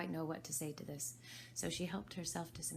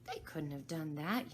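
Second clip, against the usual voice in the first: gentle remark. Acted. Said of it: "Alice gently remarked".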